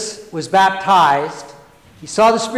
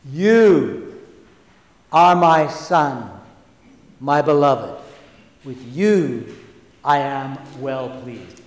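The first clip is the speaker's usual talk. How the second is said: solemn heavenly voice; 3 semitones lower, slower than usual. Acted. God's voice to Jesus, Mark.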